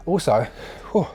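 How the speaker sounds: breathless after climbing the stairs; puffing out of breath, catching air. Real, not acted. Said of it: "I'm a little bit out of breath".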